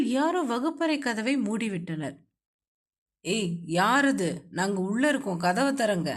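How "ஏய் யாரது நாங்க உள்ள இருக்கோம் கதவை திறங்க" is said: shouting. A narrator's reading. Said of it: "என கத்தினான்".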